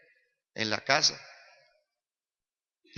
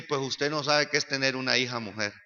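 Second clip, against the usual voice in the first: understated retort; 2 semitones lower than usual. Retold or imitated. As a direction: answer back calmly in a lowered voice. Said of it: "Yo le dije".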